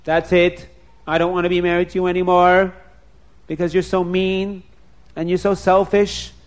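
loud furious rant; angry. Acted. Husband throwing his selfish wife out, loud furious yelling. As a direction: throw her out in a rage. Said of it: "he got so angry".

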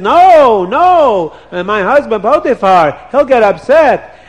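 high, mock-frightened no; imitating herself pushing him away; mock protest. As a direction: play the innocent refusing. Wife acts out refusing.

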